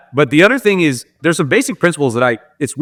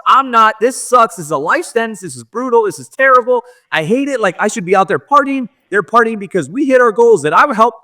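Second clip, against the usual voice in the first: high-pitched exasperated ranting, reliving the outburst; a hammed-up replay of yelling at the meeting, higher; retold angry rant; 8 semitones higher than usual. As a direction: vent it all, pitched way up and fed up. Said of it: "just yelling for, like, five minutes".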